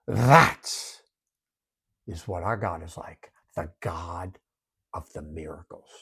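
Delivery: fading into an awed whisper. Real, not acted. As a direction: let it sink into a whisper. Closing refrain, whispered.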